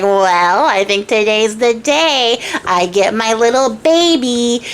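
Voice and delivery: slow, savoring taunt; lightly acted drawn-out relish; mock gloating. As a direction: stretch it out as a smug villain. Little man gloats at the queen.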